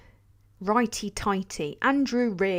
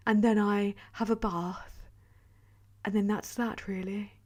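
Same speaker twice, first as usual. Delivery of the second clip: a soft, posh-ish hint of Princess Diana, softer; lightly voiced Diana, gently dreamy; 6 dB quieter than usual. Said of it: "I can do a Princess Diana voice".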